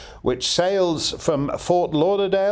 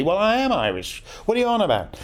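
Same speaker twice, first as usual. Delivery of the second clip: retold indignant retort, higher pitch; mildly indignant; 6 semitones higher, faster than usual. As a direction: protest with a touch of indignation, pitched up. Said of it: "I said rather indignantly".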